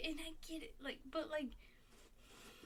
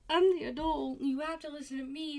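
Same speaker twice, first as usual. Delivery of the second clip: mock parent; 4 semitones higher, 9 dB louder than usual. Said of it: "but, like".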